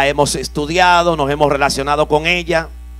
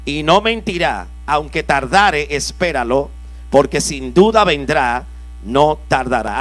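scripture reading; 3 semitones lower than usual. Acted. Preacher rereads the verse.

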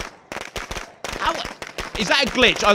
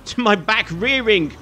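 laughing frustration; 3 semitones higher than usual. Real, not acted. Chasing immune enemy, laughing.

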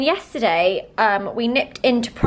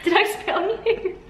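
stifled giggles; 6 semitones higher, 3 dB quieter than usual. Real, not acted. Giggling through the question.

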